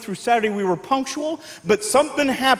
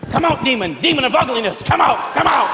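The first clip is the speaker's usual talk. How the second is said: exorcist priest. Retold or imitated. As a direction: cast out the demon like a preacher. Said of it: "I'd become a priest".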